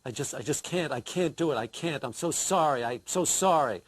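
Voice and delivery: mock-mournful, low and hushed at first; funereal voice. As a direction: put on a solemn, grief-laden apology. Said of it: "I put on my funereal voice".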